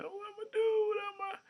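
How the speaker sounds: high-pitched fake wailing; mock crying. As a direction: put on a helpless, mourning sob. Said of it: "I be crying like".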